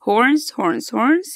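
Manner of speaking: "horns" said clearly, one by one, to echo; model word for repeating. Shown as a demonstration. Teacher models "horns" for the class to repeat. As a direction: give "horns" cleanly so pupils can copy. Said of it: "Repeat after me".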